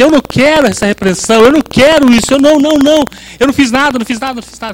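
mock whine of a child refusing a spanking; whining child. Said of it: "ele chora, ele fala assim". (imitando uma criança chorando e birrenta, voz mais aguda)

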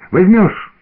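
put-on high, pleading child's whine; pestering child. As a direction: beg like an eager little boy. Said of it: "клянчил Артёмка".

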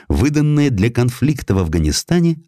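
ordinary delivery, nothing marked

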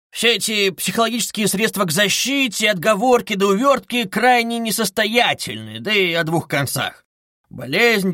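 high-pitched, sing-along teasing with giggles; needling investigator, mocking. A narrator's reading. Investigator picking apart suspect's excuses, mocking glee. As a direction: toy with the suspect, gleefully.

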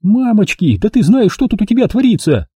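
high, startled cry; Milka, alarmed. A narrator's reading. Milka seeing his wound, high and alarmed. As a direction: gasp at the sight of the wound.

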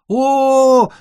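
high, loud theatrical cry; mock wail. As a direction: shriek at the fatal blow. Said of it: "завопило Солнышко".

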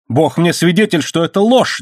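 high, frantic outburst; desperate high-pitched denial; wild cry. A narrator's reading. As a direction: swear it wildly. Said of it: "дико крикнул он".

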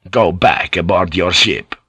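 low-key firm order; acted first command, at an ordinary pace. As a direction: order him back, keeping it controlled. Cleric commands officer in acted dispute.

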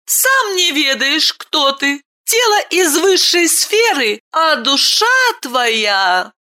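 put-on a boy rebuking the baron sternly. A narrator's reading. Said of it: "Мальчик строго ответил".

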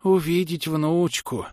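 put-on high, slow old woman's babble; babbling granny. A narrator's reading. Old woman wishing for her granddaughter, high babble. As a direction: babble it helplessly at a high pitch. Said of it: "пролепетала бабка".

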